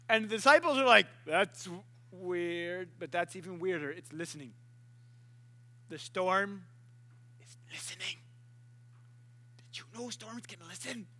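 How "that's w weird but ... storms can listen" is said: low, soft, baffled murmur dropping to a whisper; quiet, awed aside; hushed amazement. Acted. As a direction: whisper to each other in acted disbelief. Disciples whisper in awe.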